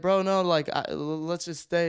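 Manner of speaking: high, stammered retold protest; mildly freaked, stumbling plea to stay put; sorta freaking. Storyteller begs stranger to stay outside, retold freaking. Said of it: "I was sorta freaking".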